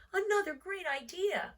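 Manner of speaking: breathy, high whisper; a child murmuring to himself. Acted. Unvoiced whisper.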